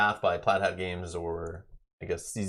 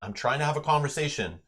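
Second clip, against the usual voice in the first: put-on parent hushing child; 7 semitones higher than usual. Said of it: "and you're like".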